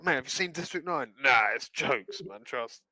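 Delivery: imitating a mate recommending a film; South African slang voice. College guy urging friends to watch District Nine, mock South African accent. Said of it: "I was like".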